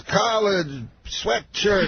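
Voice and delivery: high-pitched words set apart by a pause; Bill Cosby. Retold or imitated. Headliner explains his sweatshirt, high halting impression. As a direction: imitate a comic talking in single words. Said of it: "He talks, like, just in words".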